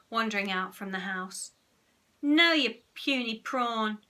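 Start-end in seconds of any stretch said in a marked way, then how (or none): 2.2-4.0 loud, slow pirate-captain roar; screaming. A narrator's reading. Henry as Captain Hook screams at Peter, loud. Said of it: "screamed Captain Hook".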